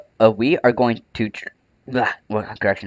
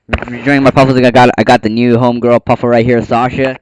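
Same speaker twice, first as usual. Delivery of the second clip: excited; 2 semitones higher, 12 dB louder, faster than usual. Real, not acted. Excited about new puffle.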